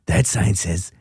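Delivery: Hank Kingsley. Acted. Answering the co-host's impression with one, low and deliberate. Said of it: "That's my Hank Kingsley".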